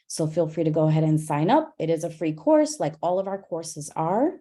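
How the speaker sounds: breathless, winded delivery; out of breath. Real, not acted. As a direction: talk while short of breath. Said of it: "And I'm out of breath at this point".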